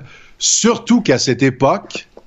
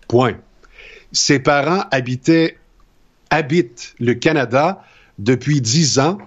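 dictation reading. Acted. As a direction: read it like a teacher's dictée. Reads a dictation aloud.

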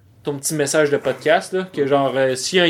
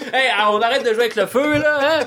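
Petite Vie dad; 5 semitones higher than usual. Acted. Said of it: "Ça sonnait comme, euh, papa dans Petite Vie".

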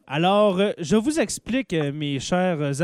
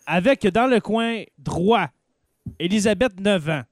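fighting game announcer. Pretend. Announcing contestants like a boxing match.

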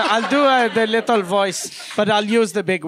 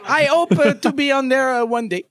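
put-on higher, small-kid voice with big words; little child voice; 4 semitones higher than usual. Child on Santa's knee bragging about homework, higher kid voice. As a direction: talk like an eager seven-year-old. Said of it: "I'll do the little voice".

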